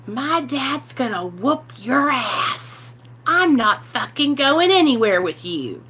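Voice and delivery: put-on slow, slurred drunk teen talking back. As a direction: mimic her drunk defiant self, dragging the words. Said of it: "Drunk, drunk as a skunk".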